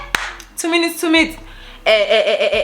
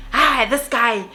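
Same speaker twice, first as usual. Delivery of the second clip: imitating a hothead, higher pitched; mock threatening shout; 5 semitones higher than usual. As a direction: play the bully squaring up to fight. Street Fighter threatens Vuvu again.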